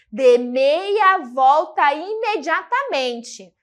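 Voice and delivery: slow, stern order, each word weighed; irritated command. Shown as a demonstration. Teacher showing the tone change, a slow irritated order. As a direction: command it like a fed-up parent. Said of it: "muda o tom?".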